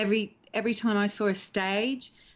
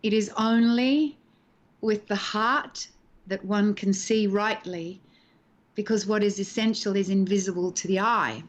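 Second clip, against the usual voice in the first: recited stage line. Retold or imitated. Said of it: "I had to say the words".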